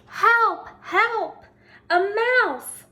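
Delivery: high, loud cry for help; story scream. A narrator's reading. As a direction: shout it like a startled housewife. Scream in story, cups flying.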